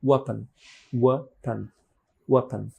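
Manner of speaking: "ওয়াপন" with stressed first syllable and short "pun"; "ওয়াপন" as WEH-pun, reduced last vowel; weak second syllable. Shown as a demonstration. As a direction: say "ওয়াপন" with a small, barely aspirated p. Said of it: "এখানে aspirated হবে না".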